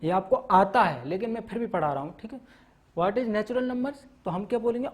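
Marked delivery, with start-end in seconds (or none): 3.0-4.0 slow, spaced-out question for note-taking; slow dictation. Shown as a demonstration. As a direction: dictate it word by word. Teacher dictating a definition slowly.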